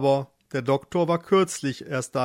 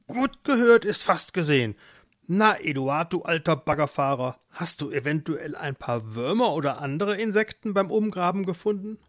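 lightly voiced mole character; a hint of a cheeky animal figure; chummy mole; 3 semitones higher than usual. Mole asks Eduard for worms, lightly voiced chummy greeting.

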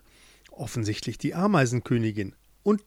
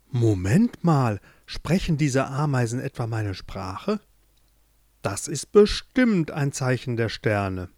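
put-on amazed boy; slower than usual.

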